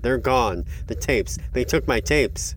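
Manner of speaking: high, loud, upset voice; distraught outcry. A narrator's reading. Robbed woman answering what they did, distraught outcry. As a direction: cry out over what was stolen.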